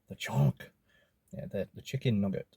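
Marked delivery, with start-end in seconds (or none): 0.1-0.7 "chunk" dropped low and heavy; deep solemn repeat. Shown as a demonstration. Repeating the food name for viewers in a low, solemn voice. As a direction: echo "The chunk" in a deep, weighty voice.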